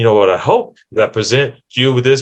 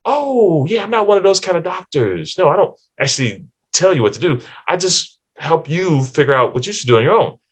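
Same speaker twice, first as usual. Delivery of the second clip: breezy doctor; 5 semitones higher than usual. Retold or imitated. Doctor refusing to give advice.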